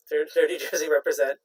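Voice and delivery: loud, laughing shout-out. Shown as a demonstration. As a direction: belt it out with a laugh. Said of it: "See, we're professional".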